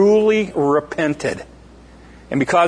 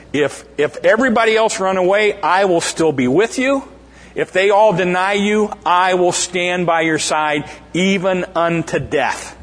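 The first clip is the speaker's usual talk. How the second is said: earnest vow; 4 semitones higher than usual. Acted. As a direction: swear loyalty with rising fervour. Peter vows loyalty.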